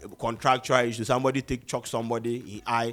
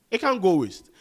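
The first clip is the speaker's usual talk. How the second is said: higher and louder, pleading with the label; insistent; 6 semitones higher, 4 dB louder than usual. Real, not acted. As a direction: push hard that it must come out. Repeats insistence after "Nah, bro.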